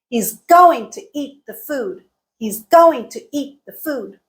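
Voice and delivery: GOING, EAT, FOOD stressed, "to" and "the" reduced; content words stressed. Shown as a demonstration. Teacher repeating an example, content words stressed. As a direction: hit GOING, EAT and FOOD, squeeze the rest. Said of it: "Everything else was reduced".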